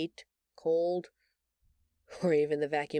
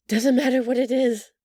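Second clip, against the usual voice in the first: louder and higher, desperate to please; a raised, urgent promise to do anything; insistent plea; 6 semitones higher, 9 dB louder than usual. Acted. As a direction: push it out, eager and urgent. Alien pleading, eager to please.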